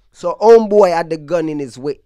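tells it in a mild New York Yankee accent; a hint of New York accent on gun in his waist. Shown as a demonstration. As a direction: say it like a Brooklyn native, not Jamaican. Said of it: "I'm still kinda yanking".

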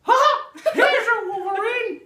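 high, loud cackling villain; unhinged villain. Acted. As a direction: gloat like a mad villain. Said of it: "That was actually really good".

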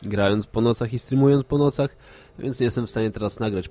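stuffy nose from a cold; blocked nose. Real, not acted. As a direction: talk through a blocked nose. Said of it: "mam zatkany nos".

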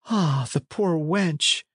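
high, drawn-out lament; theatrical pitying exclamation at normal volume; pitying cry. A narrator's reading. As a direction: cry out in slow, acted pity. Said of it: "cried the other".

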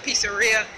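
"pizzeria" as peet-suh-REE-uh, in an everyday voice; common pronunciation. Shown as a demonstration. Vlogger showing how most people say it, common pronunciation. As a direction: say "pizzeria" with a clear "ee" before the final "a". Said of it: "most people pronounce it".

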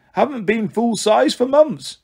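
high, slow wheedling snake; pleading. Acted. Martha begs to be full size, pleading. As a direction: stretch out the plea, pitched high. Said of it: "Martha pleaded".

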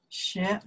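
学 in second tone, rising. Shown as a demonstration. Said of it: "second one".

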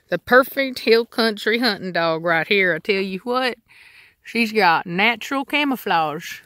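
hammed-up hill country redneck accent; playful redneck twang, slowing at the end. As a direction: put on your best redneck accent. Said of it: "redneck voice".

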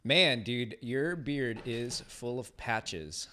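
drawn-out mock criticism; sarcastic. Host teasing listener Matt about his dense beard, sarcastic. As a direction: tease him with slow, exaggerated sarcasm. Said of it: "I say that with a lot of sarcasm".

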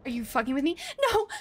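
disbelieving laughing cry; half laughing, half crying. Real, not acted.

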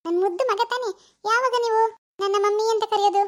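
put-on cooing to baby. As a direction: coo fondly to your little son. Mother cooing to her baby. (ಮಗುವಿಗೆ ಮುದ್ದಾಗಿ ಮಾತಾಡುವ ಧ್ವನಿ)

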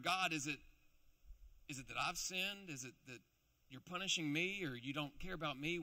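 anxious prayer. Acted. A worried believer asks God.

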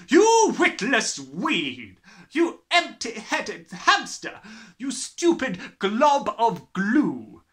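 slow, loud, high bellow. A narrator's reading. Headmistress bellows insults at a small boy, loud and slow. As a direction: roar each insult with contempt. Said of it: "the Trunchbull bellowed".

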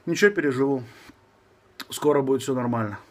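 slushy lisp, new braces on teeth. Real, not acted. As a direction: talk around fresh braces. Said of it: "Шепелявлю, потому что у меня... Поставил брекеты".

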